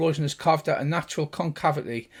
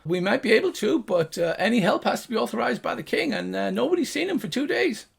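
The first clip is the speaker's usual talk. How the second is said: high gnome voice; gnome guard; 7 semitones higher than usual. Acted. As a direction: explain the rules.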